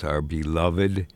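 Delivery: mildly sardonic, drawn out on "beloved"; slow down for understated sarcasm; sarcastic. Real, not acted. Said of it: "I say that sarcastically, sardonically".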